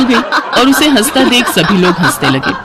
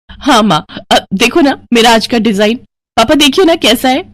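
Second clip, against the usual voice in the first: eager daughter; 2 semitones higher than usual. Acted. Daughter showing parents her design.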